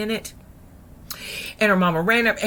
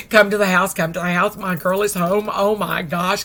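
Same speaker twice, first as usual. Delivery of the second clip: loud, overjoyed invitation; excited; 6 dB louder than usual. Retold or imitated. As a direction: call everybody over with mounting excitement. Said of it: "she's so excited".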